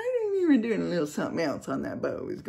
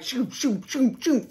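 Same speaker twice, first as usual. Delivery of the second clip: quick, high swishes; imitated whooshes; 7 semitones higher, slower than usual. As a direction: mimic images flashing past. Imitates life flashing before eyes.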